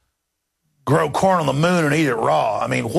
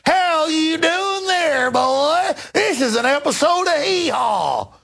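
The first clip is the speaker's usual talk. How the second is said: Hillary Clinton; 13 semitones higher, slower than usual. Retold or imitated. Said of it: "she'll get into a redneck accent that's beyond anything".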